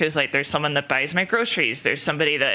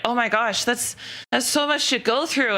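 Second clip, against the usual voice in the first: high, pitying sympathy; sympathetic listener; 6 semitones higher than usual. Retold or imitated. Someone pitying her illnesses, high cooing voice. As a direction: coo with pity. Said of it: "somebody's like".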